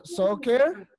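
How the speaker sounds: "Soccer" said clearly as SOC-cer with a falling end; model word for repeating. Shown as a demonstration. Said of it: "vamos a repetirlo".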